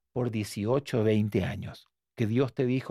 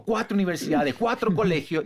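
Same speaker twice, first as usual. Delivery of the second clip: panicked prayer; 4 semitones higher, 3 dB louder than usual. Retold or imitated. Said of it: "y temblaba así".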